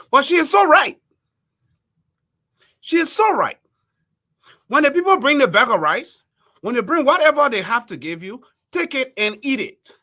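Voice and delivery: loud, high, forceful agreement; emphatic endorsement. Real, not acted. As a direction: drive the point home loudly. Emphatic endorsement of quoted advice.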